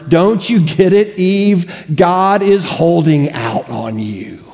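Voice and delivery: a hint of a sneering snake; mock serpent. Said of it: "what the serpent is hissing here".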